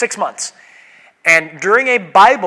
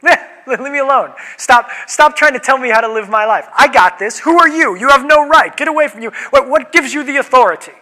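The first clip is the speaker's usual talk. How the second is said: higher, louder indignant pushback; defensive person; 5 semitones higher, 3 dB louder than usual. Pretend. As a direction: play someone bristling at being corrected. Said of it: "code for?".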